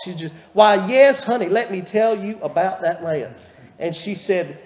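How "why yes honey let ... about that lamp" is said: put-on higher, loud sugary old lady greeting; Miss Pearl's sweet voice. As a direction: coo it like a proud Southern grandma. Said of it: "so that's the way she talked".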